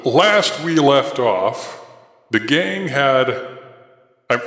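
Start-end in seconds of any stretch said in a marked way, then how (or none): 0.0-3.3 slow, solemn prophet opening. Acted. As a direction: draw it out like a preacher. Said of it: "I'm still trying to do my prophet voice slightly".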